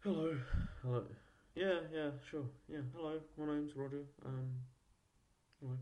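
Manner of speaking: high, loud telephone-style hello. Shown as a demonstration. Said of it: "a higher pitched voice".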